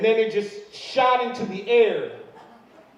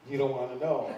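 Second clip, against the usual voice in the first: embarrassed mumble; 6 semitones lower, 7 dB quieter than usual. Retold or imitated. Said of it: "He's like".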